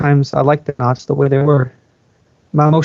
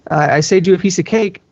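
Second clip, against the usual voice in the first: bright, higher pleading sister voice; nervous cheer through the door; hopeful younger sister; 4 semitones higher than usual. Acted. Sister talking to a locked door, hopeful and nervous.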